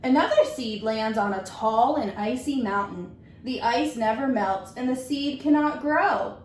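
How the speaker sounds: gentle, measured storybook reading; reading to children. Acted. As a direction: read it like story time for a class. Teacher reads picture book aloud.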